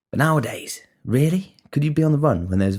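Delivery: really, you think so?; incredulous. Real, not acted. Incredulous rhetorical question to listeners.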